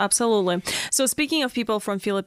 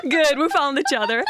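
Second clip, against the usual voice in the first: laughing through the words, a bit louder; 4 semitones higher, 4 dB louder than usual. Real, not acted. Interviewer amused at being stalked back, laughing. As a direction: giggle while you talk, amused. Both stalked each other online.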